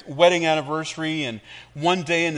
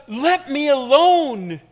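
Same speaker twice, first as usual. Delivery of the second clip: high, loud, slow cry; yelled plea; 11 semitones higher, 9 dB louder, much slower than usual. Acted. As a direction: yell it out to be left alone. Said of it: "I yelled out".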